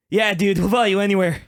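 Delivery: lightly voiced surfer ninja; surfer dude. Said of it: "and they go".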